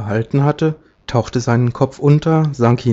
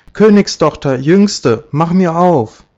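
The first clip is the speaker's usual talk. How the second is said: high, raised frog's call; calling at the door; 5 semitones higher, 5 dB louder than usual. A narrator's reading. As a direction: call through a door, each phrase falling. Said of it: "klopfte es an der Tür und rief". (hohes Rufen an der Tür)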